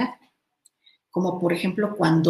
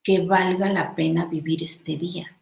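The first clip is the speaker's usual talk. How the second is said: whispered wish for a good day. Acted. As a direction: breathe it out as a whispered hope. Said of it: "yo diga".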